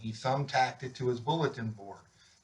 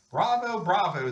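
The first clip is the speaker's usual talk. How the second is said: loud, higher cheer; 6 semitones higher, 5 dB louder than usual. A narrator's reading. Students cheering Officer Buckle's speech, loud cheer. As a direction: cheer it out like a crowd.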